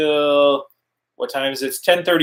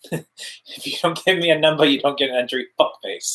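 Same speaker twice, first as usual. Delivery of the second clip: Malkovich impression. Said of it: "like Malkovich would say".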